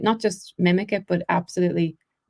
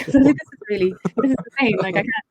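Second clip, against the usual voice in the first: talking through a laugh, higher pitched; amused, words lifted by real laughter; 4 semitones higher than usual. Real, not acted. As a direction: laugh while you say it. Laughs about losing own accent.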